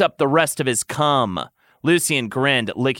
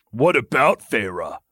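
lightly amused, slower echo of the question. Acted. Lucien echoing Tamlin, mildly amused. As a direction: toss the question back with a hint of amusement. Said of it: "Lucien asked, amused".

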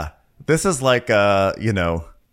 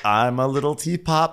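little crab; 6 semitones higher than usual. Acted. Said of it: "it was just really like".

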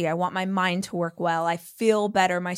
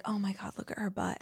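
mock envious gush; 11 dB quieter than usual. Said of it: "I'm always like".

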